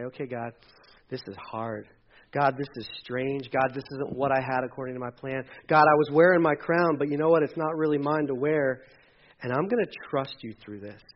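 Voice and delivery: soft, humble surrender to God; quiet prayer. Retold or imitated. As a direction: pray it softly, letting go.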